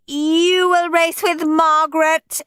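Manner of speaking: high, loud bossy teacher voice; stern teacher. A narrator's reading. Miss Battleaxe addresses the class, high bossy teacher voice. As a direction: lay down the rules like a strict schoolmistress.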